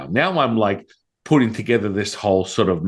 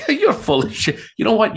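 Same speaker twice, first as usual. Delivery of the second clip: high, laughing accusation; laughing disbelief; 13 semitones higher than usual. Retold or imitated.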